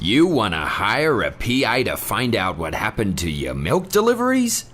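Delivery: rising to a squeak of disbelief; incredulous. Acted. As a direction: voice shooting up in disbelief. Incredulous detective.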